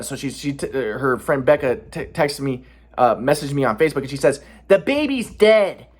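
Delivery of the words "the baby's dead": mock cold voice. Becca's message, voiced slowly.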